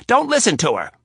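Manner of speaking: high, loud pleading cry; urgent plea. Acted. Rapp begging Anna to ignore her, loud and high. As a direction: cut her off fast.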